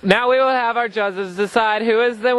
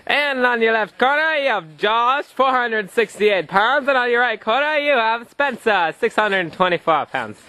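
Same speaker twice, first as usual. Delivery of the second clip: ringside announcer calling the fighters; booming fighting game announcer. Acted. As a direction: introduce the fighters like a pro bout. Parent announces kids' pillow fight.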